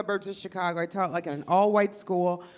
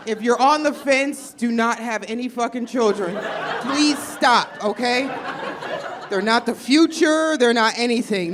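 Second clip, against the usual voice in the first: mock rant; 5 dB louder than usual. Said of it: "teacher venting to crowd".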